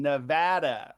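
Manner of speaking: Nevada with middle A as in "cat"; correct Nevada pronunciation. Shown as a demonstration. Volunteer trainer teaching callers "Nevada" as nuh-VAD-uh, correct pronunciation. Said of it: "note the pronunciation".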